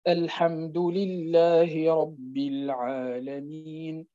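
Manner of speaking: slow recitation, the ي in العالمين held only briefly; short vowel length. Shown as a demonstration. Teacher demonstrating the short length for students, slow chant. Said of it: "وأنك تقراه بالقصر".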